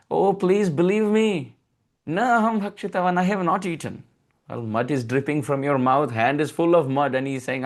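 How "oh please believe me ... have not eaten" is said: put-on begging child. Child begging mother to believe.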